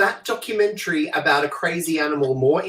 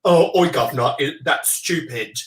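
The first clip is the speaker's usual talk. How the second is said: mock English accent; English "oi, governor" accent; 2 semitones lower than usual. Shown as a demonstration. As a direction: put on a cockney-style English accent. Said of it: "do an English accent".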